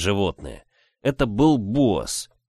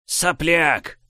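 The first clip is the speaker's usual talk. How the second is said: contemptuous laugh; 7 semitones higher than usual. Acted. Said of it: "презрительно рассмеялся он".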